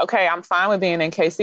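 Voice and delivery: ordinary talk, nothing marked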